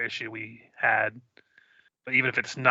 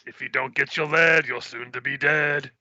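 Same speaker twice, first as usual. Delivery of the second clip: street vendor call; 3 semitones higher than usual. Pretend. Hawking lead like a vendor.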